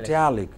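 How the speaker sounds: "Italic" with a strong TA; stress on TA. Shown as a demonstration. Teacher confirming word follows rule, stress on TA. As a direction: stress the middle syllable of "Italic". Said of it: "It goes by rule".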